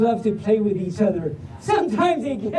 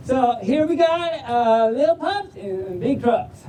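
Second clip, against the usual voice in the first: folksy Southern storybook reading; Southern drawl. Acted. Reader opening the puppy book for the crowd, Southern drawl. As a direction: launch the title in a Southern drawl. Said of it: "but in a Southern drawl".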